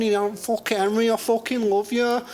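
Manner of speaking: high, pleading put-on lady voice; council estate lady. Council estate lady pleading with Henry, high-voiced. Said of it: "some nice council estate lady".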